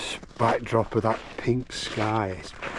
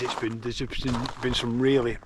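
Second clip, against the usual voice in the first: lips freezing up; cold lips. Real, not acted. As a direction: stiff frozen lips. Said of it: "my lips are freezing up".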